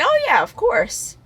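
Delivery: high, slow, easygoing yes; friend agreeing. Retold or imitated. Friend lends his hat, high drawn-out easy agreement. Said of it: "he's like".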